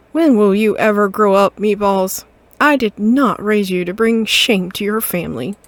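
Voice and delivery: loud, scolding mother cat. Acted. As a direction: tell off your grown son. Mother scolding her grown son.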